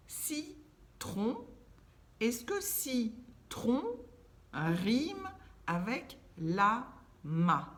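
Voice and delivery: "Citron" high and slow, "rime" stressed; questioning emphasis. Shown as a demonstration. Teacher quizzing pupils, slow and emphatic. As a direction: ask slowly, leaning on "citron" and "rime". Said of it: "On réfléchit".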